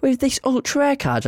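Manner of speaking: very high-pitched mum impression; questioning mum. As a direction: put on a mum voice, querying her son. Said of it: "when then my mum asked me, she goes".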